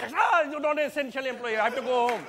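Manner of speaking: hammed-up startled yelp, then pleading to leave; comic fright, starting high; mock panic. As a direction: play a panicky employee crying out to go home. Acted employee panicking at a gunshot.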